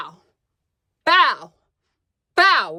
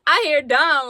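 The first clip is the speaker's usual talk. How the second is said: laughing through words; 3 semitones higher, 5 dB louder, slower than usual. Real, not acted. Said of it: "I was laughing and I was crying".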